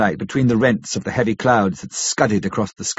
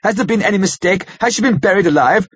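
anguished; 7 semitones higher than usual. A narrator's reading. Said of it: "He groaned in anguish".

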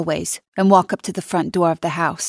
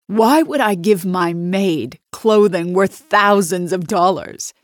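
scornful; 4 dB louder, slower than usual. Acted. Nina scorning the maid.

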